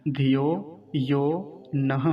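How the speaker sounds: slow धियो यो नह, word by word, with final h; short धि, clear h ending नह; sounded visarga. Shown as a demonstration. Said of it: "विसर्ग का भी उच्चारण हमें करना है". (धियो यो नह, धीमे, विसर्ग साफ़)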